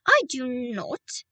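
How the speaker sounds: a slow, loud witch's shout. A narrator's reading. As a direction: bellow each word slowly, full of command. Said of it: "shouted the Grand High Witch".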